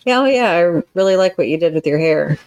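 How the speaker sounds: offhand, dismissive praise; grudging compliment. Shown as a demonstration. A counselor demonstrates a grudging compliment to her listener, dismissive. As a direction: toss it off as if you don't care. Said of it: "two totally different things".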